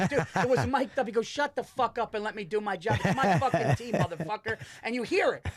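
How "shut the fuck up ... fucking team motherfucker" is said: heated retold squabble, higher voice; arguing Italian guy. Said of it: "sounded like two fat Italian guys".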